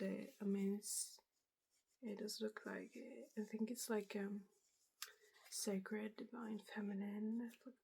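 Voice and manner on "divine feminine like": ASMR whisper. Real, not acted. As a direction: breathe the words out gently.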